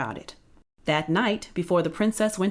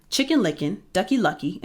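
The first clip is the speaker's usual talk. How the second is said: usual speaking voice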